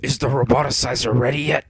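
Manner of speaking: impatient, keen cartoon villain; eager. A narrator's reading. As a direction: press the servant eagerly. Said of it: "asked Eggman eagerly".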